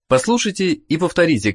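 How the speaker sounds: usual speaking voice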